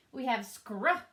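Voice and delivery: scr- said slowly apart as a blend; sounding out scr. Shown as a demonstration. Teacher sounding out scr for kids. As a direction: stretch the scr- cluster out. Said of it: "making the scr sound".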